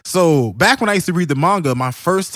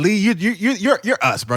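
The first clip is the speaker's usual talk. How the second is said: higher, laughing through it; 6 semitones higher than usual. Real, not acted. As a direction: laugh at how relatable Lee is. Laughing, identifying with Lee.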